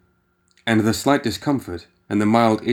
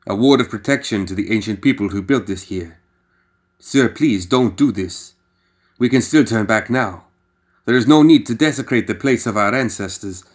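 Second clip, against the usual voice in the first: lightly voiced worried guide, begging a little louder; pleading guide; 4 dB louder than usual. Guide begging McCabe not to dig, a touch louder and pleading. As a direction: urge him to turn back, slowing on the plea.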